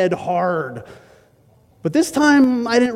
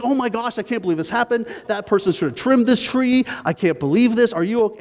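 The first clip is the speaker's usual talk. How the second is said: higher, lightly voiced fussing helpful neighbor; concerned neighbor; 6 semitones higher than usual. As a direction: play the kindly stranger all worked up for you. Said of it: "And he's like".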